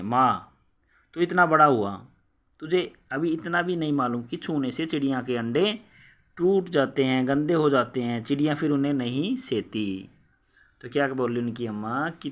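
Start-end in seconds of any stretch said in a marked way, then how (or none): 0.0-10.1 loud exasperated scolding; scolding mother. Acted. Mother scolds Keshav for touching eggs, loud and exasperated. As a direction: scold the careless boy sharply.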